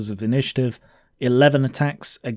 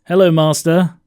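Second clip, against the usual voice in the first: Yuri greeting master; 5 semitones higher, 8 dB louder than usual. Retold or imitated. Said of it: "I'm not gonna do the accent".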